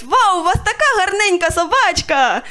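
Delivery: high gushing praise. Retold or imitated. Passerby gushing high over the little dog. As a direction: gush over the puppy. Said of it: "коли кажуть".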